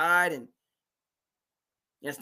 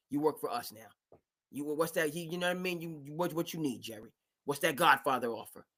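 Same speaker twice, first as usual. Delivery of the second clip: sly Godfather offer; 2 semitones lower, 5 dB quieter than usual. Retold or imitated. Ballmer pitching Jerry West, a hushed Godfather-style offer. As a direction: lean in and make the offer he can't refuse.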